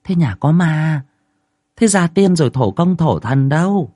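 put-on old woman questioning the wife about the ghost. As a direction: ask it like a sceptical village elder. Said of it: "Một bà già tiến lên hỏi".

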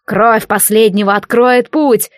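exultant ritual call; triumphant shout. Acted. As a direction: proclaim it like a victorious fanatic. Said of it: "торжествующе закричал Невис".

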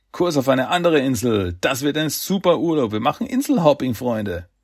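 rally your friends with eager delight; begeistert. Acted. Donatello sets course for another island, enthusiastic. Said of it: "Donatello war total begeistert".

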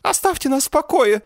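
very high, loud squeak; squeaking plea. A narrator's reading. Jennet squeaks at the attackers, very high and loud. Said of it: "пропищала Дженнет".

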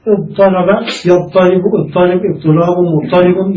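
the forms of اضطرب recited one after another like a drill; listing forms. Shown as a demonstration. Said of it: "نقول".

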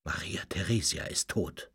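low, hushed voice of doom; sepulchral voice. Acted. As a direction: announce a death from the grave. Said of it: "verkündete mit Grabesstimme".

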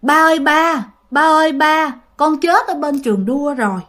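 a hint of a child's ghost pleading, slowing at the end; ghostly child calling. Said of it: "nghe tiếng nó kêu rằng á là". (giọng hồn đứa trẻ gọi ba, nhẹ nhàng)

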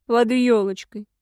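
slow winded wheeze; wheezing. Acted. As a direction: squeeze it out, winded. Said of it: "прохрипел из-под меня недоубитый тёмный".

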